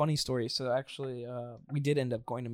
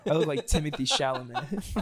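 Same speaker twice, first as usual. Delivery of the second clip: laughing mock swagger. Mocking as cocky guy.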